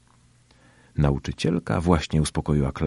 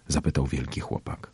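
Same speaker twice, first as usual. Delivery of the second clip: usual speaking voice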